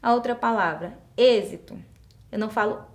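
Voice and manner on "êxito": "êxito" with a closed first E, as in "ê". Shown as a demonstration. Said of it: "Então, som fechado". ("êxito" com E fechado)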